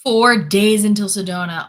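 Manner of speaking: loud, eager countdown; excited countdown. Real, not acted. Host telling viewers about her trip, loud and excited. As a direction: announce it like big news. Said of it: "I'm so excited".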